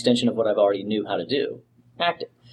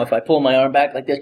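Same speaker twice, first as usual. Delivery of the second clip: strained voice. Shown as a demonstration. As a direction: voice straining with physical effort. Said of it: "can you hear the strain in my voice".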